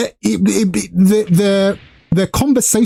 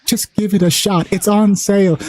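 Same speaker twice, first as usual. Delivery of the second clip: coaxing; 4 semitones higher than usual. Retold or imitated. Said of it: "I'm always like".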